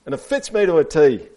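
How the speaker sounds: lightly squeaked tortoise line; squeaky tortoise. A narrator's reading. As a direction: pipe it up for the children. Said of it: "squeaked Tortoise".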